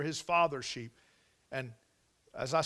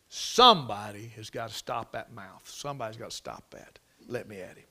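outraged; 5 semitones lower than usual. Retold or imitated. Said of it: "He was outraged".

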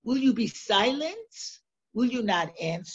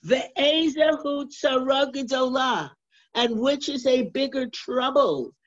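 exclaiming; 4 semitones higher, 3 dB louder than usual. Acted. Teacher rising to rhetorical question.

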